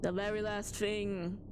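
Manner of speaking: lightly done creepy storyteller; mock spooky narration. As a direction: tease the chat with dread. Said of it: "now we're gonna go serious mode".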